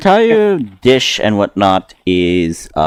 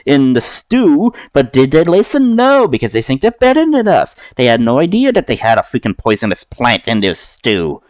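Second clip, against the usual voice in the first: rising higher into an indignant rant; indignant chef; 5 semitones higher than usual. Acted. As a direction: cook venting about arrogant diners. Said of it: "And it says".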